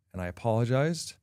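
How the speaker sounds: normal talking voice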